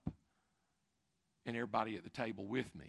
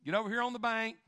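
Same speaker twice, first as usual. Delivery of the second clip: called order; 10 semitones higher, 6 dB louder, faster than usual. Retold or imitated. Dad calling kids to bank.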